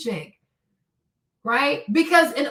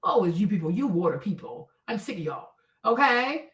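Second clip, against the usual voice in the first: lower, mock-exasperated retort to a crying friend; fed-up retort; 7 semitones lower, 4 dB quieter than usual. Telling off a crying friend, lower and fed up. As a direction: drop the pitch low and tell her off. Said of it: "I said".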